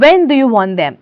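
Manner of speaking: light German-accented question; hint of a German accent. Shown as a demonstration. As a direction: give it a slight German accent. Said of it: "This is again a German accent".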